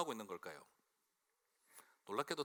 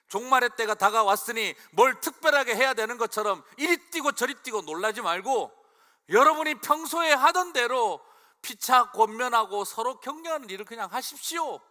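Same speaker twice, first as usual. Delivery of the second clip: much higher and louder preaching; preaching at full force; 10 semitones higher, 14 dB louder than usual. Real, not acted. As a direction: drive the point home at full force. 힘주어 설교. (훨씬 높고 크게 힘찬 설교)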